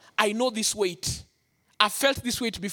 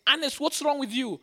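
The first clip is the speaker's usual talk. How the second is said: higher-pitched alarmed question; retold shock; 5 semitones higher than usual. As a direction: imitate a shocked girlfriend. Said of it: "She was shocked".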